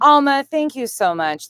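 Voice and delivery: high, loud burst of gratitude; excited thanks. Real, not acted. Thanking a viewer for a gift.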